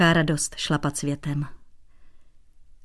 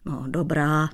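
softening; 2 semitones lower than usual. Acted. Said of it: "měkl Dratvička".

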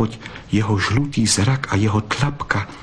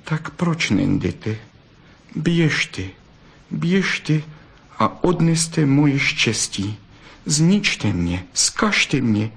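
sad; 6 semitones higher, slower than usual. Acted. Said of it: "Zadíval se na ně smutně a řekl".

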